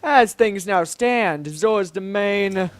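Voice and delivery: slow, proclaiming monarch; grand Zora king, grave. Acted. King warning that the domain is doomed, grand and grave. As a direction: stretch out each phrase with regal weight.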